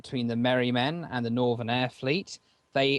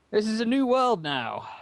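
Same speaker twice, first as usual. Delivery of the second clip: mocking teen impression; 7 semitones higher, 3 dB louder than usual. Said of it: "If my teenager voice".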